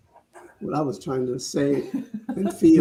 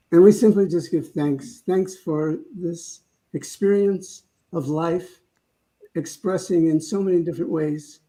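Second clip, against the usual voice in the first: closing prayer. Real, not acted. Leads closing prayer, eyes closed.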